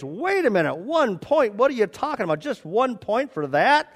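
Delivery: high-pitched mild mock yell; retold scream. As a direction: protest in high, incredulous disbelief. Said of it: "The guy screams".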